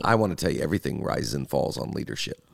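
low guru delivering a maxim; lightly voiced leadership guru; John Maxwell voice. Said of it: "my John Maxwell stage of life".

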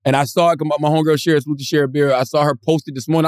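ordinary delivery

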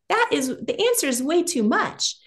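hushed, confiding whisper. Real, not acted. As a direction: lean in and whisper the answer. Confiding the answer.

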